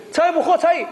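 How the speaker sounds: high-pitched casual invitation; imitating cheeky kid. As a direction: play a kid addressing an adult without honorifics. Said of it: "이렇게 얘기하면". (반말로 권하는 아이 흉내)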